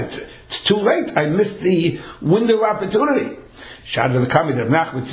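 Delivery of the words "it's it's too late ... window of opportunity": mild despairing lament. Retold or imitated. Seller despairs.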